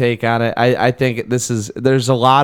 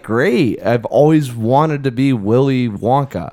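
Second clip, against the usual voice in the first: mock enthusiasm; slower than usual. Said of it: "you think he's, like".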